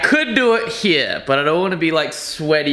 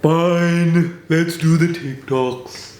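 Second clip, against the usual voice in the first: grudging yes; much slower than usual. Retold or imitated. Emotional brain grudgingly agrees.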